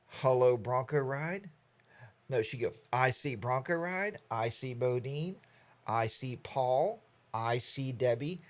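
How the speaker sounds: put-on slow, sing-song kids' show host calling names; a sweet hostess peering through her magic mirror. Streamer imitates the Romper Room host greeting kids, slow and sing-song. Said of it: "And she'd go".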